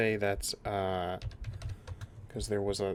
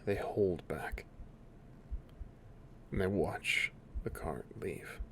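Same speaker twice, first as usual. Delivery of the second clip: measured scene-setting with long pauses; game master narration; 2 semitones lower than usual. A narrator's reading. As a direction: narrate the aftermath in spaced phrases.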